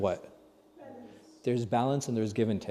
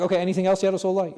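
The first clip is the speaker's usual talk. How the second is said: imitating a follower, higher and louder; eager questioner; 5 semitones higher, 6 dB louder, faster than usual. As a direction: play the man asking for more advice. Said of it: "He's like".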